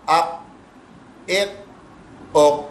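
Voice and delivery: "آپ، ایک او" each stopped with no bounce after it; no echo. Shown as a demonstration. Teacher shows ordinary reading, "آپ، ایک او" with no echo. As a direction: say "آپ، ایک او" separately, without any echoing release. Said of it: "اب اس میں کوئی گونج نہیں ہے".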